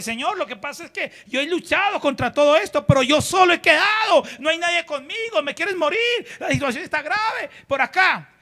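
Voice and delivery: complaining Elías. Acted. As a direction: plead like a worn-out prophet. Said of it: "Elías lo responde".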